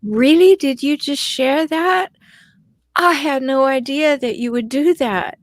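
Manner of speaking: mildly acted incredulity; incredulous. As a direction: question it as if you can't believe it. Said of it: "you're kind of incredulous".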